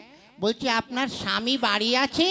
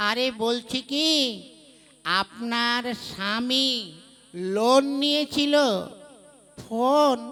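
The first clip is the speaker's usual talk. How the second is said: slow spelled-out explanation; slower than usual. Acted. Explaining slowly to deaf woman.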